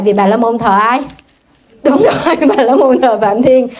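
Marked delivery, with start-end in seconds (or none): 1.8-3.7 chuckling as she explains; laughing. Real, not acted. Nun explaining to her audience while laughing out loud. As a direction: laugh through it, louder.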